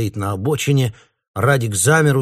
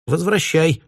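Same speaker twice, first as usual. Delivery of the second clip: commanding; 8 semitones higher, 3 dB louder, slower than usual. Retold or imitated. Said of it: "велела Галя".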